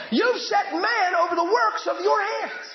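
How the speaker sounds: slow, high, ringing proclamation; booming sermon line; preaching shout. Real, not acted. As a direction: proclaim it to the whole church.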